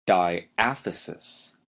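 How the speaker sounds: diaphysis, stressed on the second syllable, "AF". Shown as a demonstration. Teacher introduces the first bone term, second-syllable stress. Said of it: "Notice the stress is on the second syllable".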